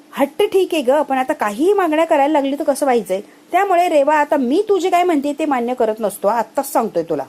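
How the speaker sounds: husband scolding his wife, loud and high; mock scolding. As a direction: tell her off loudly, a bit hammed up. Akshay scolding Reva in retelling.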